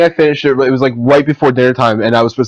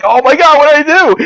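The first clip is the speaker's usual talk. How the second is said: much higher, distraught parent; higher panicked cry as a stricken parent; mock panic; 14 semitones higher, 3 dB louder than usual. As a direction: act out a horrified parent. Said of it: "I'm like".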